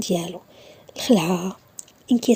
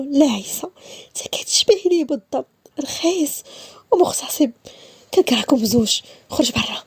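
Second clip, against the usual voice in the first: higher, contemptuous accusation; bitter accusation; 3 semitones higher than usual. Acted. Woman insulting Issa, bitter and contemptuous. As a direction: spit the insults at him.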